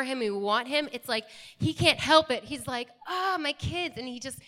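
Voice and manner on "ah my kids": lifted, higher-pitched fond exclamation; affectionate acted sigh of delight; delighted parent. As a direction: gush like a parent over their kids. God delighting in his children.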